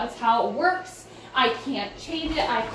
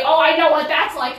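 mock parent; 2 semitones higher, 6 dB louder than usual. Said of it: "your parents who say".

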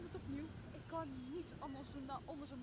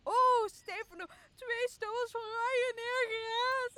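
much louder, higher cry of joy; overjoyed; 8 semitones higher, 11 dB louder than usual. Acted. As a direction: shout with delight at the reunion. Overjoyed reunion with Stefano.

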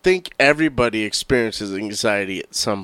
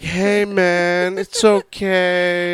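slow laid-back surfer dude; 3 semitones higher, much slower than usual. Retold or imitated. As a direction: drawl it like a chill surfer. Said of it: "talking like a surfer".

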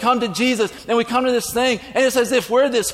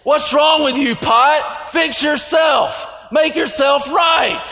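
sharp raised scolding, slowing on stupid pot; 4 semitones higher, slower than usual. Acted. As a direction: bark at the broken pot like it can fix itself. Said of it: "me walking over here and going".

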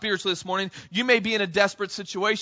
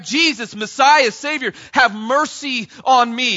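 loud, high, slow pleading shout; crying out louder; 5 semitones higher, 7 dB louder, slower than usual. Retold or imitated. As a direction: lift it over the crowd, begging for mercy. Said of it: "he's crying out even louder now".

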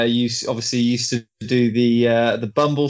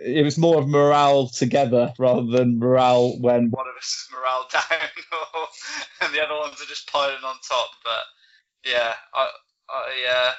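distant, off-mic sound; like talking from another room; far from mic. Real, not acted. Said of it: "you sound like you're in another room".

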